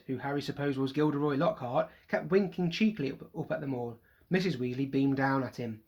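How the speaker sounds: plain reading voice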